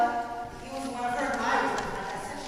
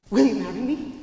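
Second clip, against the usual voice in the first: lightly voiced tomcat, lowered pitch; tomcat suitor; 4 semitones lower, 3 dB louder than usual. Señor Gato proposing to Martina, tomcat suitor voice. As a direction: propose in a hint of a low cat voice.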